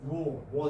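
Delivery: "wo" said low with rounded lips. Shown as a demonstration. Teacher demonstrating a semi-vowel to class, rounded lips. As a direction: round the lips fully on each "wo". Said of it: "this is rounded".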